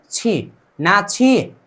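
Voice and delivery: "छी, ना छी" drawn out slowly; slow sounding out. Shown as a demonstration. Teacher blending syllables for the class, slowly. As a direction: stretch "छी" and then "ना छी". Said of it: "छ plus ई".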